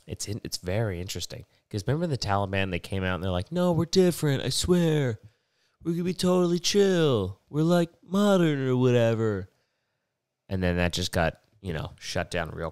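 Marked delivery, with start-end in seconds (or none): 3.5-9.5 high, louder put-on voice, mocking promises; mock pleading reassurance. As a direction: insist in a comically high voice that you've changed. Voices the Taliban promising change.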